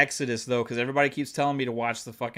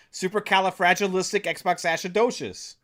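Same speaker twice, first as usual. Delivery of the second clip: proud, emphatic tongue-twister delivery; showing off; 4 semitones higher than usual. Shown as a demonstration. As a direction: rattle off the long word triumphantly. Showing off saying long word.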